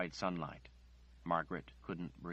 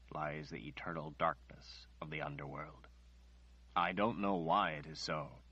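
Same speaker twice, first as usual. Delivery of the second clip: Nathan, grave and gentle; 3 semitones lower than usual. Acted. Nathan explains the prophecy.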